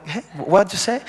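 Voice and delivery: puzzled American asking again; confused American. Retold or imitated. Priest imitating an American who doesn't understand him, puzzled. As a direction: play the baffled American who can't follow. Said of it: "se quedan así como que".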